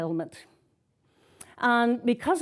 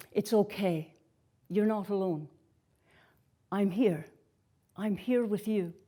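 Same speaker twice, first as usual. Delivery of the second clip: gentle reassurance; 2 semitones lower, 5 dB quieter than usual. Retold or imitated. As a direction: reassure tenderly, in short unhurried phrases. Retells comforting voice heard from horse.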